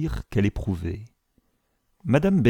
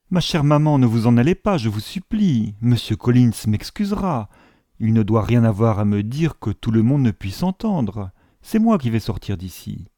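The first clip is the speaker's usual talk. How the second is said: crying out in protest. Acted. Daughter begging her mother not to leave, mildly exclaimed. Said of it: "Elizabeth s'écria".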